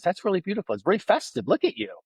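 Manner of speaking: bright high fawning admiration; gushing compliment. Retold or imitated. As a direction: gush over her necklace way up high. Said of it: "And I go".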